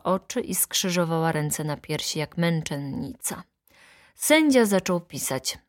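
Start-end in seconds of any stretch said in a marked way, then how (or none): none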